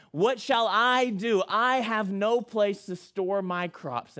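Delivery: a farmer stuck, drawing it out; rich man fretting. Acted.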